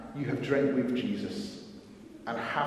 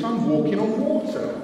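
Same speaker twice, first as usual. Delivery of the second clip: "I'm walking on water" higher and louder, delighted; gleeful wonder; 8 semitones higher, 6 dB louder than usual. Retold or imitated. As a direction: say "water" with a rising, amazed lift. Peter thrilled on the water.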